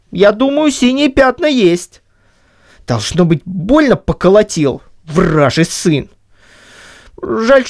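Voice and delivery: lightly voiced huffy Cossack; grumbling Chub. A narrator's reading. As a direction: sore old man vowing revenge. Chub grumbles threats alone.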